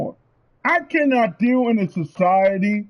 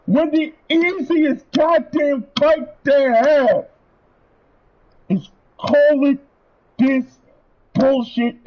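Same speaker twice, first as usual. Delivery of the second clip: slow angry shout; 2 semitones higher, slower than usual. Real, not acted. Ranting at Sony.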